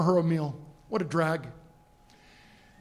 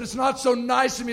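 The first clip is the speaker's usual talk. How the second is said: insistent rebuttal; 3 semitones higher than usual. Retold or imitated. Passenger correcting flight attendant, insistent rebuttal. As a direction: push back on the praise, pitch lifted.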